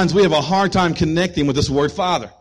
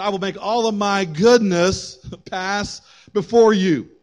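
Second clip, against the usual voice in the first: higher, slow, emphatic scripture reading; proclaimed verse; 4 semitones higher, slower than usual. Real, not acted. Preacher repeating God's answer to the congregation, proclaiming. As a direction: declare the promise slowly with lift.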